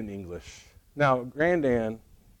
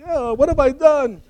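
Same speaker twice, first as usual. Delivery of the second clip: laughing dismay; 12 semitones higher, 7 dB louder than usual. Retold or imitated. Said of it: "he was kinda like".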